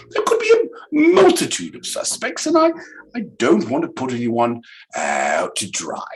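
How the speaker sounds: hammed-up tearful plea; badly faked crying; mock crying.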